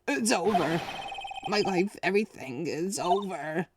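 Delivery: high, anguished despair; despairing wail. Acted. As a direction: wail that life is over. Client screaming in despair.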